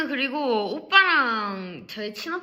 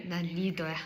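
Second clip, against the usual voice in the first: low, quiet mock-cool declaration; self-serious leader; 5 semitones lower, 10 dB quieter than usual. Leader reminding herself of her role, low cool self-talk. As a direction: state it low and soft, acting the cool leader. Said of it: "리더라는 이 생각 때문인가".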